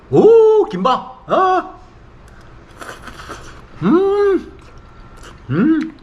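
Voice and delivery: high, loud yummy exclamations; delighted food moans. Real, not acted. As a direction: squeal with delight at the taste. Excited tasting of food.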